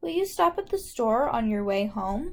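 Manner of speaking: rising intonation at the end.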